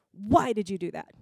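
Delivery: hard accusing stress on "why". Shown as a demonstration. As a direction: ask it like an indictment, leaning on WHY. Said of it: "feels like an indictment".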